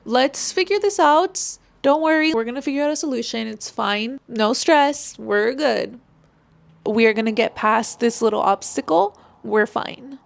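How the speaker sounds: light, easy and reassuring; easygoing reassurance. Shown as a demonstration. Calming someone who came with a problem, easy reassuring tone. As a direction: talk them down like it's no big deal. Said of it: "For easy manner".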